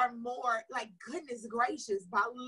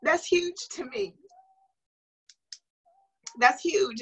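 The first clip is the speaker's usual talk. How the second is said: louder, slow and firm; emphatic; 6 semitones higher, 8 dB louder, slower than usual. Real, not acted. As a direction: push through the tears, stressing it. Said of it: "I'm getting emotional".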